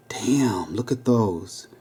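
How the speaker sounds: low, hushed peek at the keyhole; said quietly. A narrator's reading. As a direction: keep it down, barely above a breath. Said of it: "quietly said".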